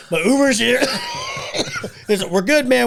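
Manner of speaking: high, loud laughing pleas while being squeezed; strained laughing. Retold or imitated. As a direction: laugh through it, gasping to be let go.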